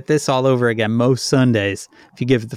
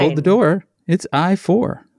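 bingo caller; 4 semitones higher than usual. Retold or imitated. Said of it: "the callers doing the clever little rhymes".

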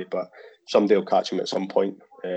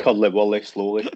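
"curly whirly slowly" in a thick Scottish accent; Scottish accent on request; 3 dB louder than usual. Shown as a demonstration. Guest obliges host's request to say "curly whirly slowly", Scottish accent. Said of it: "Can you say curly whirly slowly".

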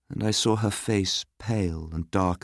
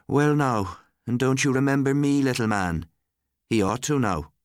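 lightly voiced visitor, pitched up; Missus Marshall greeting; 7 semitones higher than usual. A narrator's reading. Visiting woman addresses the fatherless little boy, higher-pitched. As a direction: greet a small child in a higher voice.

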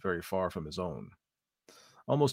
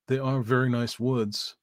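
patronising; 4 semitones higher, 4 dB louder, slower than usual. Acted. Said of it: "with a touch of patronage in his voice".

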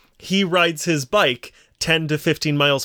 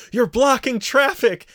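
mock yell; 8 semitones higher than usual. Passing driver heckling a cyclist, mock yell. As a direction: imitate a passer-by yelling out the window. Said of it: "yelling out the window".

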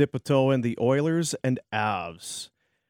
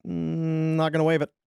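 lightly voiced player balking, pitched up; Nazem Kadri; 4 semitones higher than usual. Host imitating player refusing a trade, mock reluctant voice. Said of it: "and he's like".

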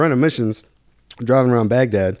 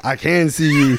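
amused reply; 3 semitones higher, slower than usual. Retold or imitated. His amused answer to the kid.

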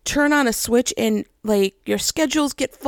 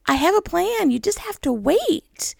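higher-pitched retold plea for patience; lightly voiced God urging someone to wait; God, gently exasperated; 6 semitones higher than usual. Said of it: "And God's like".

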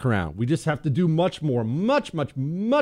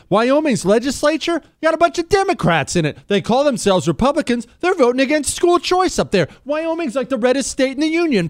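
much higher, louder fired-up rant; 12 semitones higher, 3 dB louder than usual. Real, not acted. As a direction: let the outrage boil over. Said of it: "I'm gonna get myself fired up".

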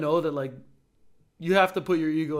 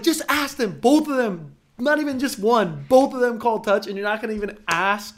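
players begging the ref to check both line judges; a raised, laughing exasperated plea; incredulous pleading; 3 semitones higher than usual. Retold or imitated. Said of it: "we all were like".

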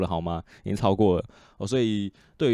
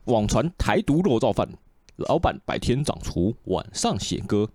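newspaper headline read. Real, not acted. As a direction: read out a headline in measured phrases. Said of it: "读一下报纸吧".

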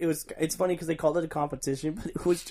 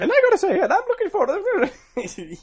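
squeaky high voice; 7 dB louder than usual. Pretend. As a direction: squeak it like a tiny cartoon girl. High put-on voice mimicking character.

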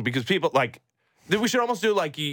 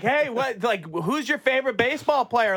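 reporter question voice; 8 semitones higher than usual. Retold or imitated. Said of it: "They're like".

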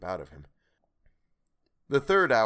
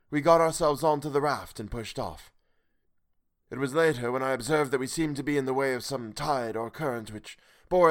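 higher, grave and sorrowful stranger; higher, solemn voice out of the night; the strange voice; 5 semitones higher than usual. Acted. Stranger tells his tale.

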